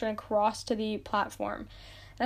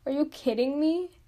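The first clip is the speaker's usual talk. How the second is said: mock exasperated. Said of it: "And I'm like".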